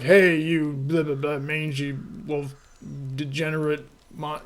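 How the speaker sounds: a lightly voiced, slowed grumbling old man; Uncle Ruckus voice. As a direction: toss off the insults like a cranky old coot. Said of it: "And he's like".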